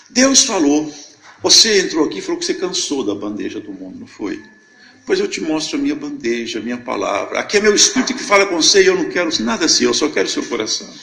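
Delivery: lightly voiced prophet, loud opening bursts; proclaimed divine message. Man delivering God's words to the newcomer, proclaiming. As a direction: declare it as a message from God. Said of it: "Esse homem parou, olhou pra nós".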